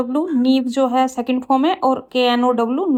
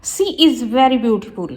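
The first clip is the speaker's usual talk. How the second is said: slow, careful read of the corrected sentence; slow teacher dictation; slower than usual. Shown as a demonstration. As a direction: lay out each word clearly for the class. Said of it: "ये right होगा".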